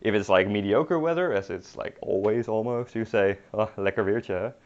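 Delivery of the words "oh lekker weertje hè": sarcastic. Shown as a demonstration.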